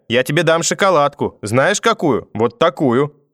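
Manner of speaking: put-on bully the child into coming back; threatening grandmother. A narrator's reading. Grandmother chasing grandson round the table, threatening and coaxing. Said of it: "грозила она".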